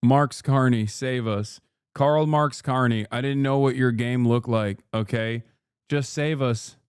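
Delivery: low, hammed-up begging to Carney; mock plea.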